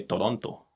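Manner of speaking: Toronto said the Spanish way, "To-ron-to" with a tapped r and clear vowels; Spanish-style Toronto. Shown as a demonstration. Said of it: "when we say that in Spanish".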